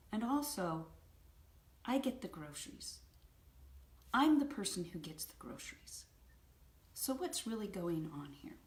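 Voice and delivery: unhurried, gentle questioning; calm, curious. Retold or imitated. Husband asking upset wife what's wrong, calmly curious. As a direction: probe calmly, without attacking. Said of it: "still calm and curious".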